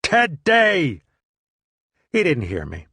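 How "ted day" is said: much higher, louder yell of his name; louder shout. Retold or imitated. Calling his friend a second time, an even bigger shout. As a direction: shout it harder, no answer yet.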